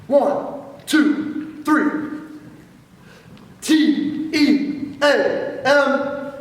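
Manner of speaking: loud, slow, spelled-out T E A M; yell leader shout. Shown as a demonstration. Yell leader demonstrating the team yell, slow spelled shout. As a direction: shout each letter to the stands. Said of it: "And now here's the yell".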